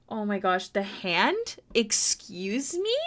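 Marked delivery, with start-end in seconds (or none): 1.7-3.0 drawn-out mock outrage. Real, not acted. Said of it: "I hope you never say".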